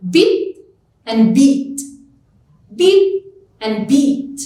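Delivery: BIT and BEAT set apart word by word; minimal pair demo. Shown as a demonstration. Teacher showing a different middle sound, careful demo. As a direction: say bit, then beat, each carefully separated. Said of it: "minimal pairs occur in the middle".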